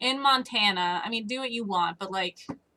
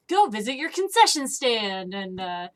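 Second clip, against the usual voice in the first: cartoon announcer; 3 semitones higher than usual. Imitating old cartoon ad.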